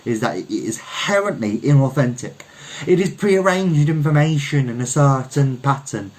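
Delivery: lightly voiced Frenchman holding forth; French poet orator. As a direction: declaim like a street-corner poet, firm on the last lines. French poet orating on crate.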